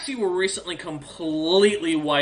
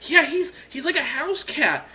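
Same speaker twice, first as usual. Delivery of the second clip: much higher, laughing mockery; mocking dragon; 11 semitones higher than usual. Dragon mocking Durmar to Tick Trick, much higher with a laugh. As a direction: belittle the old dragon with glee. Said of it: "And she goes".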